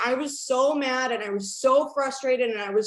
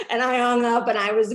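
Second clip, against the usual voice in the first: laughing through words; 7 dB louder than usual. Real, not acted. Laughing while telling.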